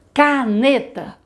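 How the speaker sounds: Caneta said slowly, syllable by syllable. Shown as a demonstration. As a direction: clap out Caneta in three beats. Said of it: "quantas vezes a gente abre a boca". (Caneta bem devagar, batendo as sílabas)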